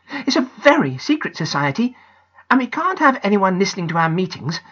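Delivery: put-on high girlish voice; young girl. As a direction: explain the secret society proudly. Janet explains proudly.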